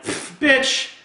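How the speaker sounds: scoff, then drag the words out slowly; mildly acted scornful disbelief; skeptical cop. Cop to the speeding woman, skeptical scoff. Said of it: "obviously skeptical".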